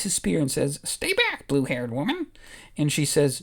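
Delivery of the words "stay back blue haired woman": Ewok warning. Acted. Wicket raises spear.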